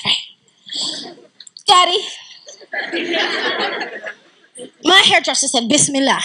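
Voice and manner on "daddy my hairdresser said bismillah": mock pompous princess, a touch of tattling. Princess tells her father on the hairdresser, lightly pompous. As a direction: play a hint of spoiled princess telling on someone. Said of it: "Pompous princess".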